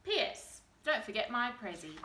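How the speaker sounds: bright, eager party invite; excited invitation. Acted. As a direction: read it with bouncy excitement.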